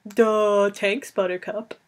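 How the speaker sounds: dopey, slack-jawed Duh; mock dim-witted grunt; dumb Duh. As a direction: play him as a total dimwit. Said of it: "the kind of thing Wesley came out with".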